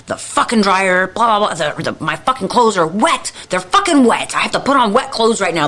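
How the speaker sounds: mock exasperated complaint, climbing as it goes; mildly worked-up griping; retold losing it. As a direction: replay a fed-up rant about the dryer. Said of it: "I lose my mind, okay?".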